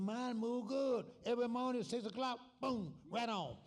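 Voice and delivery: put-on high, loud old man greeting a friend. Old friend hailing Sam in Jackson, high old man voice. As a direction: pitch it up like a chirpy old timer calling out.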